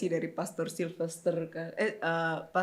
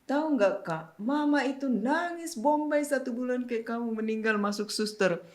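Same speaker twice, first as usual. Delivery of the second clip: teasing tattling; 5 semitones higher than usual. Retold or imitated. Siblings teasingly report mother's crying.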